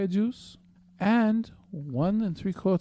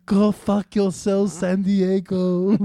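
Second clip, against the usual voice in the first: slow, loud, higher mock announcer read; hammed-up sign-off; 5 semitones higher, 6 dB louder, slower than usual. Ending the recipe read, a drawn-out mock sign-off. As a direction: draw it out big and loud.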